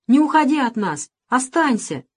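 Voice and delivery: loud high plea; pleading. A narrator's reading. Boy pleads with Nikolai, loud plea. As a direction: beg him to stay.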